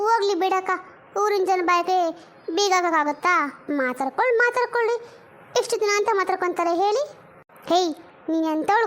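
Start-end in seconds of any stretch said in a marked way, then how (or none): 3.7-4.4 ಮಾತಾಡ್ಕೊಳ್ಳಿ said low with a rising end; low, shrugging ಮಾತಾಡ್ಕೊಳ್ಳಿ; low dismissive. Acted. Dismissive repeat to gossip. 4.4-5.1 ಮಾತಾಡ್ಕೊಳ್ಳಿ jumped up high; high, taunting ಮಾತಾಡ್ಕೊಳ್ಳಿ; high mocking. Dismissive repeat to gossip.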